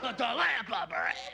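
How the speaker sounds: put-on high, slow child's holler; little kid yelling. Little kid yells it once more.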